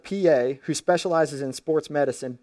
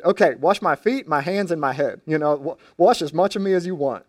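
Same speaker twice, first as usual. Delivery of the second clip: mildly eager, raised voice; lightly acted sudden willingness; quick change of tune; 4 dB louder than usual. Peter giving in to Jesus, mildly eager turnaround. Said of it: "Peter quickly changed his tune".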